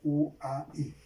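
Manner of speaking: U, A, I named one at a time; U, A, I, vocal por vocal; vowels spelled out. Shown as a demonstration. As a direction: pick out U, A, I separately.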